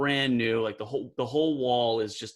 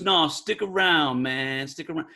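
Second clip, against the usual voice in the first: put-on New York accent. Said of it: "he goes".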